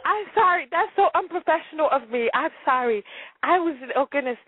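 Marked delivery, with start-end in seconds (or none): 0.1-2.3 high voice, still weak with laughter; recovering from laughing fit. Real, not acted. Host finding the mute button failed, high and laughing apologetically. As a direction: apologize while barely holding back laughter. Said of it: "needed a moment to pull myself together".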